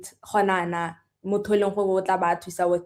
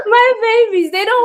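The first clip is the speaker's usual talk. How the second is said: mock crying; 10 dB louder than usual. Mock crying over students.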